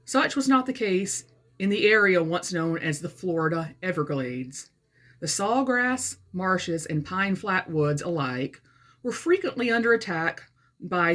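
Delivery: measured read-aloud with phrase-by-phrase pauses; story narration. A narrator's reading. Author reading her satirical novel to viewers, measured narration. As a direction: read it out carefully as book prose. Reads aloud from own book.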